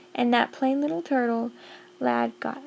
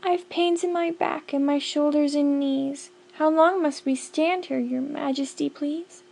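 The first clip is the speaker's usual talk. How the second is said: a raised, pleading little turtle voice; Mac pleading; 3 semitones higher than usual. Acted. Mac begs his king, high and pleading. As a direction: beg the king from under the weight. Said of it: "Mac pleads with King Yertle".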